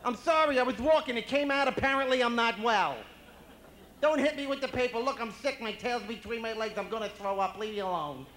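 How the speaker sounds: very high, loud pleading wail; hammed-up panicky confession; guilt-ridden dog. Guilty dog to owner, wailing apologies. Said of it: "Dogs always have that guilty look".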